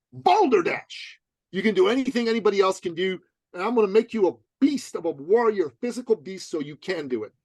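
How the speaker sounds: rally them like a bold coach; lightly voiced rousing trainer. Danny's fiery message voiced.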